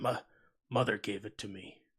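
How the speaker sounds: low, mumbled mutter under the breath. Voicing a young orc asked about a talisman: muttering under his breath. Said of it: "just kinda mutters under his breath".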